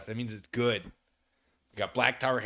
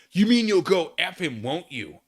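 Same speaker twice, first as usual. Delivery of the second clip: loud, higher accusing shout; angry shout; 6 semitones higher, 8 dB louder than usual. Acted. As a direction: yell the accusation. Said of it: "I shouted angrily".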